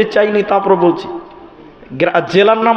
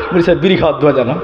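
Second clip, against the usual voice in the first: put-on quick, laughing rerun of the boy's question; preacher laughing while repeating a child's question; laughing retelling; 5 semitones lower, much faster than usual. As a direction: rattle it off fast, laughing.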